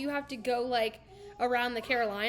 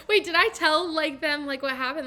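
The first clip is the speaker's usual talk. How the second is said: loud, laughing lead-in, pitched up; 4 semitones higher, 10 dB louder, slower than usual. Real, not acted. Telling friends about a bad first date, loudly through laughter.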